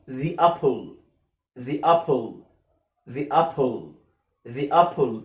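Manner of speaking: slow model of "The apple" as thee-apple, falling; "thee" before vowel. Shown as a demonstration. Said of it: "إمتى انطقها مكسورة؟". (نطق "The" مكسورة قبل "apple")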